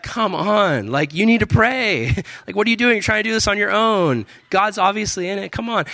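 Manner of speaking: high-pitched mock wifely urging; exasperated wife. Wife urging her husband to pray, high-pitched exasperated imitation.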